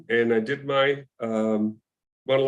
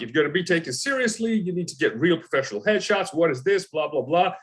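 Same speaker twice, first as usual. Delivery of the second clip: mildly scolding agent, pitched a bit higher; berating; 4 semitones higher than usual. Retold or imitated. Agent lectures actor about amateur headshots, mild berating. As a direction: imitate a brisk telling-off. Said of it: "he just berates me and tells me".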